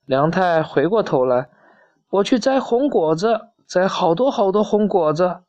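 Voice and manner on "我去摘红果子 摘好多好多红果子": put-on higher-pitched child's reply; storybook youngster, voice pitched up; lightly voiced young dinosaur. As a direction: answer Mum as the little dinosaur. Young dinosaur answers his mother.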